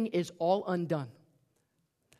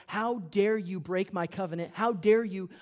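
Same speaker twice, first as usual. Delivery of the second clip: a retold righteous rebuke, rising louder; indignant rebuke; 4 dB louder than usual. Preacher voicing Judah's outrage at Tamar, indignant. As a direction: scold her with mock outrage. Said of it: "He's ballistic. He's mad".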